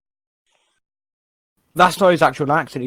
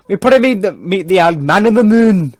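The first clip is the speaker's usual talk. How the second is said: Jamie impression; 3 semitones higher, 4 dB louder than usual. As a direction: lightly act out a naive character. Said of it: "He's like".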